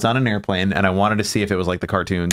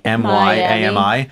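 spelling it out. Shown as a demonstration. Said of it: "he was talking about his Amy".

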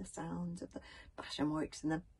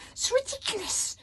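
high, grumpy little dragon; sleepy dragon snorting in annoyance; 8 dB louder than usual. A narrator's reading. Toothless woken by the noise, grumpy dragon snort.

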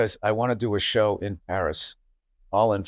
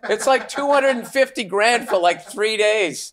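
higher, very slow stretched outrage; incredulous; 9 semitones higher, slower than usual. Real, not acted. Host stunned by the yacht price. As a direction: drag out the disbelief.

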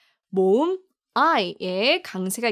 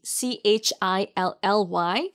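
slow spelling; much slower than usual. Shown as a demonstration. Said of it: "바로 Chilli".

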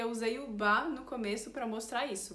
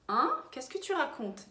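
higher-pitched puzzled "Hein?"; puzzled huh; 4 semitones higher than usual. Shown as a demonstration. French teacher demonstrates asking what someone means, puzzled. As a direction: ask it as if baffled by what was said. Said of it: "O que que você tá falando".

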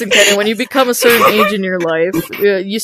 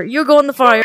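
shouted threat; faster than usual. Real, not acted. Threatening Kenny with the fire, shouted. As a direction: shout it at him.

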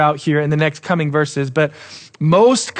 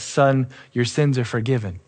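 softer; 4 semitones lower, 6 dB quieter than usual. Shown as a demonstration. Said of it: "that's not why Jesus says".

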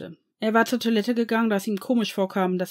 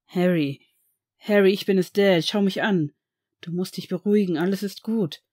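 put-on louder urgent calling of the boy; 5 dB louder than usual. Father calls his panicking son, urgent and loud. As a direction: call him back out of his panic. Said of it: "versuchte Severus nun, seinen Sohn aus dessen Panik zu befreien".

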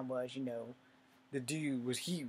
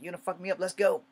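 higher, louder challenge; retold dare; 5 semitones higher, 8 dB louder than usual. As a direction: call him out to fight. Retold dare to bigger man.

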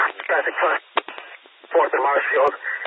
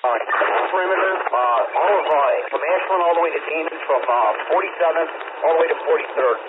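crackly police radio transmission; talking through a handheld radio; over a radio. Real, not acted. Officer ordering perimeter over radio.

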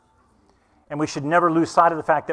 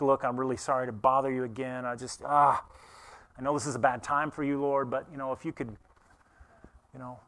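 much softer, hesitant begging; timid cajoling; 4 semitones lower, 8 dB quieter than usual. Retold or imitated. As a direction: apologize and plead meekly. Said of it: "cajole him".

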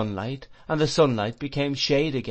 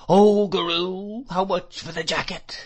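crying out whiningly; 8 semitones higher, 4 dB louder than usual. A narrator's reading. Old shopkeeper pressing the boy for a price, whining cry. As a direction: stretch the first words loudly, then drone on. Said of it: "cried the old man".

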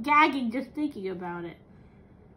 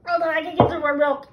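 crying in pain; 8 semitones higher, 4 dB louder than usual. Real, not acted. Pain after eating hot chip.

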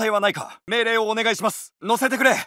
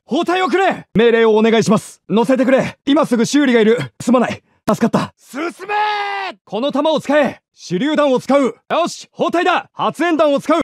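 squad orders given louder; louder take of the battle barks; louder callouts; 5 dB louder than usual. Acted. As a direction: call orders over the noise.

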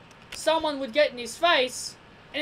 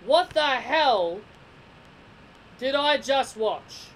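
louder, slowed-down disbelief; stunned outburst; 4 dB louder, slower than usual. Retold or imitated. Reviewer recalling his reaction to the shock win, stunned and slow. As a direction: replay the moment the finish left you speechless. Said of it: "And my exact words were".

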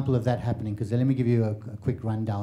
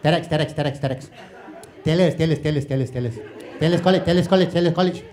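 Malaysian phone chatter; 3 semitones higher than usual. Retold or imitated. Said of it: "Malaysians were on the phone going".

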